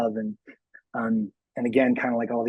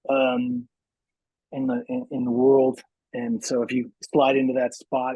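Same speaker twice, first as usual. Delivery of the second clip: lightly voiced Johnny, unhurried with pauses; a hint of character in a halting pep talk. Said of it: "can Johnny say something to Dan".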